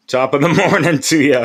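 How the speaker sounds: hammed-up Irish brogue, laughing through it; a cheesy, jokey Irish hello; mock Irish greeting. Greeting his viewers in a mock Irish lilt.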